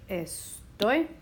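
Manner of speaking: "estoy" drawn out as es... TOY; slow "estoy", lifting onto stressed TOY; stress on last syllable. Shown as a demonstration. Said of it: "the stresses right there".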